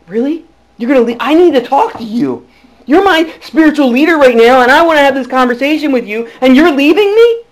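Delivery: don't let him walk away; pleading protest. Retold or imitated.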